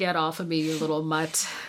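ordinary talk

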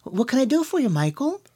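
overly nice customer-service voice. Imitating an email tough guy being nice on the phone: imitating a guy's extra-nice phone voice. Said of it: "I sound like this".

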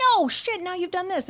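shrill, very high, shrieking scream. Retelling watching a horror movie: imitating screaming at the tv. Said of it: "I was screaming at my T V".

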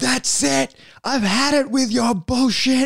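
very high, slow, drawn-out scream, acted out. Retelling what he screamed at the speaker in the car: imitating someone screaming. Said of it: "He screams at me like".

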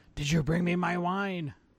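loud yelling, shouting. Voicing a man sitting against the wall, yelling after fleeing characters: yelling. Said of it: "the guy that was sitting against the wall yelling".

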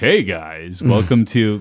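low, on-air radio DJ voice. Describing how Mike Morrissey talks: Mike Morrissey's DJ voice. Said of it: "And he has a DJ voice too".

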